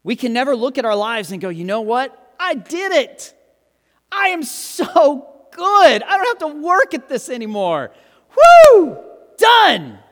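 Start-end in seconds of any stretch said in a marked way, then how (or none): 1.5-10.0 high, loud, self-satisfied crowing ending in a whoop; preacher mocking spiritual complacency, crowing loudly; smug boast. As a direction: play the proud believer who thinks he's finished. Mock boast of being good enough.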